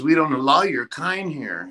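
mock loud clerk; a mild mock shout at the front desk; retold loud remark. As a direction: desk clerk's loud put-down, lightly voiced. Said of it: "really loud".

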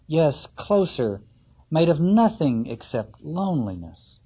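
slow, measured poem reading. Acted. Lecturer reading a poem to the class, measured. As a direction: read the poem with weight. Reads Cummings poem aloud.

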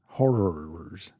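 put-on soft little-kid "Horrors"; "Horrors" said small and cute, like a toddler; toddler talk. Shown as a demonstration. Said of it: "horror sounds a lot like horrors".

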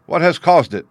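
loud, high-pitched urgent asking; urgent question. Acted. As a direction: press anxiously for the cause. Horrified friend asks urgently for cause.

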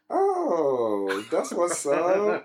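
high, drawn-out sassy camp voice. Retold or imitated. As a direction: play it high and knowingly arch. Sassy reply to friend's news.

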